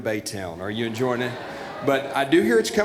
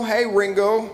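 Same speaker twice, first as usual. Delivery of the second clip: high, louder call across the stage; mock-hopeful shout to a monk; 6 semitones higher, 4 dB louder than usual. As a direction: hail him like a friend in the crowd. Calling out to a monk.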